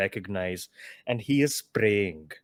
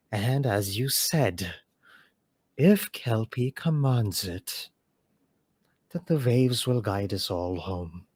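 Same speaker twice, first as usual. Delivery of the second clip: a lightly voiced, steady, motherly calm; calm maternal voice. Mother calling across the storm to the chief, calm and firm. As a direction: soothe and command at once. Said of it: "very calm, maternal voice".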